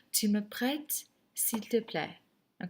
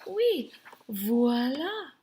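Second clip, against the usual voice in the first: teacher's answer; 8 semitones higher, 5 dB louder, slower than usual. Shown as a demonstration. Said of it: "I would say".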